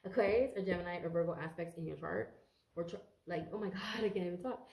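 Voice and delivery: ordinary delivery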